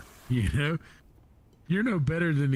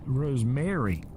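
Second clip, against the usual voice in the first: Rosemary with the stress leaning on the "mary" ending; stress on air; slower than usual. Shown as a demonstration. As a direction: lean on the air sound in Rosemary. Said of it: "Emphasis on the air".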